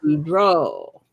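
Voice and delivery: Boudreaux drawn out as "boo-DROH"; practising a name. Shown as a demonstration. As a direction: try out Boudreaux with a long "oh" ending. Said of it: "saying I'm pronouncing Mister Boudreaux's name wrong".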